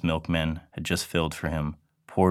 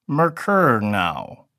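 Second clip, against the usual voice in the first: slow, higher cat voice, drawn out; loud cat demand; 6 semitones higher, 5 dB louder, much slower than usual. Acted. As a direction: demand milk like an urgent cat. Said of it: "the cat said loudly".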